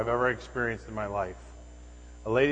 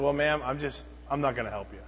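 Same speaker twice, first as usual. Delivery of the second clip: understated bluntness, dropping softer at the end; blunt refusal; 5 dB quieter than usual. Retold or imitated. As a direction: turn them down plainly, without raising the voice. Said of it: "I was just blunt with her".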